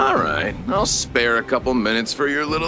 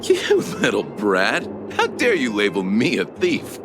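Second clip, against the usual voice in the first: indignant rebuke; 3 semitones lower than usual. Acted. Accused suspect to child, indignant rebuke. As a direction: put the accuser in their place.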